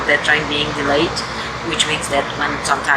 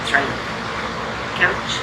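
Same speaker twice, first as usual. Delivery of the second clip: muffled behind a mask; talking through a mask; through a face mask. Real, not acted. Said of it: "not sure if you can hear me with the mask on".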